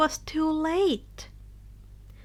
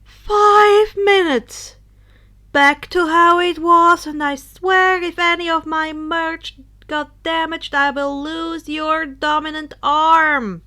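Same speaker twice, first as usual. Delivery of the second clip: hollow menace; 3 semitones higher, 9 dB louder than usual. Acted. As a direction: give the order like a distant threat. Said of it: "The words sounded distant and hollow".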